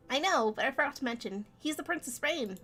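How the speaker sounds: a hint of a small, high mouse; high-pitched mouse. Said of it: "high-pitch my voice".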